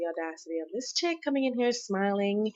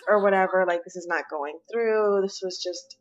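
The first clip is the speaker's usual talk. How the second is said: louder defensive reply; 4 dB louder than usual. Acted. Acted quarrel, his voice.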